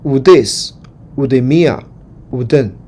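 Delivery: very slow, drawn-out recitation; slow model reading. Shown as a demonstration. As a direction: lay out each form slowly for repeating. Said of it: "我们就一起来读一读哈". (老师放慢示范朗读)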